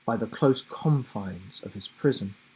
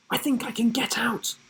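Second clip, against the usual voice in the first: breathless excitement; 9 semitones higher, 4 dB quieter, faster than usual. A narrator's reading. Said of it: "he said breathlessly".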